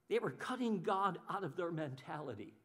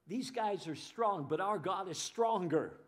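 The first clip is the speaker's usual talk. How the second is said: building to a shout; 2 semitones higher, 10 dB louder than usual. Pretend. Preacher voicing the people's faith, building to a shout. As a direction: preach it up from calm to a full shout. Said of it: "They should have been saying".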